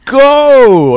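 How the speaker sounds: high, full shout; impatient drivers yelling. Acted. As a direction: yell it like a driver stuck behind. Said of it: "Everyone's like".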